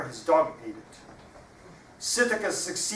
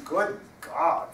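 parrot voice; 6 semitones higher, 4 dB louder than usual. Acted. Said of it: "let me do the voices".

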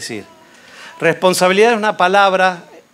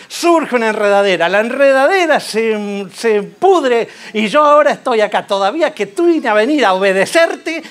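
complaining Jonah; 3 semitones higher than usual. Retold or imitated. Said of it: "que estaba tan enojado".

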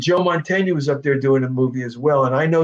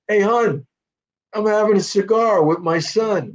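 father's voice; 6 semitones higher than usual. Retold or imitated. Father calling to mother.

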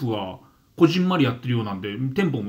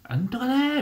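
Osaka dialect imitation; 12 semitones higher than usual. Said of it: "両方とも大阪弁で".

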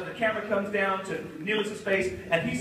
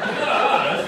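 mock scream; 8 semitones higher, 8 dB louder than usual. Cast fleeing in panic.

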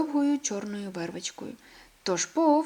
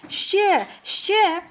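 high, loud, begging for more; the little hare's second word, eagerly demanding more; eager cry; 11 semitones higher, 7 dB louder than usual. A narrator's reading. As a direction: cry out for another ride. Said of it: "вигукнула Мартіна".

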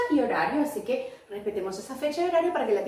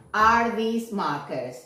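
slow teacher question; 4 semitones lower, much slower than usual. Shown as a demonstration. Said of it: "Ya pregunté por".

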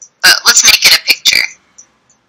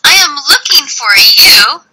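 acted searching; 3 semitones higher than usual. Shown as a demonstration. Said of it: "that's the difference of looking".

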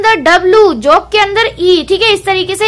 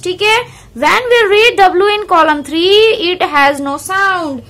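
very slow, deliberate reading of the book line; careful teacher reading from the textbook; slow textbook read-aloud; much slower than usual. Acted. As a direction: read each word out slowly for the class.

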